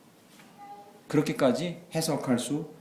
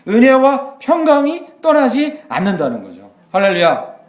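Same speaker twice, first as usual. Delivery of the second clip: loud, high, slow preaching cry; full-force preaching; 10 semitones higher, 12 dB louder, slower than usual. Acted. Pastor crying out to the church, loud preaching. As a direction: preach it out to the congregation.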